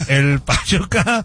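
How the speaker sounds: slow stretched stadium announcer call; Chango Almaraz. Retold or imitated. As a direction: drawl it like the stadium PA guy. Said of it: "Pero con la voz de don, el Chango Almaraz". (voz de locutor de estadio, lenta y alargada)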